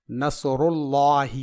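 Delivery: slow recitation with a heavy L in Allah; thick lam in Allah. Shown as a demonstration. Teacher shows lam after damma, thick L in Allah. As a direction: draw out Allah with a full, dark lam. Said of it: "پر پڑھیں گے".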